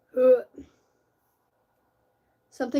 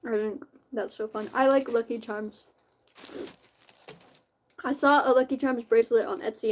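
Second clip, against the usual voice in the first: eating cereal. Real, not acted. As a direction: mouth full of cereal. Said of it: "I'm eating cereal right now".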